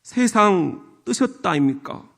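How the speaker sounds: lightly voiced Gyeongsang accent; a hint of Gyeongsang lilt; Gyeongsang dialect. Shown as a demonstration. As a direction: say it like a Gyeongsang local. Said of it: "경상도는".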